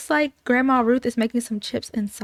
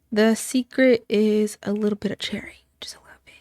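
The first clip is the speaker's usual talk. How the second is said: secret whisper. Real, not acted. Sharing the recipe's secret ingredient, whispered. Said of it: "whispers the recipe secret".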